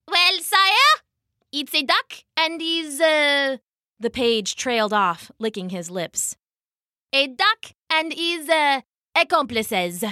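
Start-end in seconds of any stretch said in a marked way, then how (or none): 0.1-3.6 high, hesitant page voice; high halting servant voice; nervous page. Acted. 7.1-10.0 lightly voiced hesitant page; a hint of a flustered servant; nervous page.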